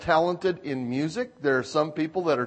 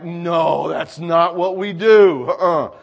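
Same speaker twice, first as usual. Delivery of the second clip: louder, slow and stern; firm scolding; 5 dB louder, slower than usual. Retold or imitated. Pastor correcting his dog, slow firm scold. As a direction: lay down the rule slowly. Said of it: "it was like".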